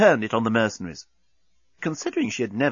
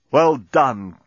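cheering cry; 5 dB louder than usual. Acted. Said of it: "cried Dan".

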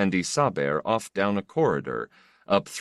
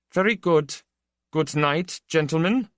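polite official; 11 semitones higher, 3 dB louder than usual. Acted. Official dismisses the prisoners.

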